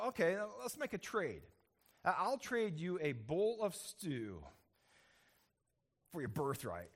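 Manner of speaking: slow, teasing bargain, half joking; kidding offer. Acted. Jacob teasing his hungry brother with the stew offer, playful. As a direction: dangle the trade like a joke. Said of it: "maybe even kiddingly".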